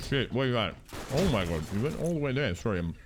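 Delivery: talking through a mouthful of food; words around a bite of food; mouth full. Real, not acted. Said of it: "speaking with my mouth full".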